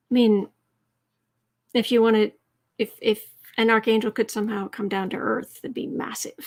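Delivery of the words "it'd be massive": whispered awe. Real, not acted. Awed aside, under breath.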